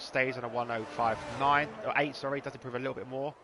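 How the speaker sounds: animated sim-racing play-by-play; live race commentary. Real, not acted. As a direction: call the action as it unfolds. Calls live race action.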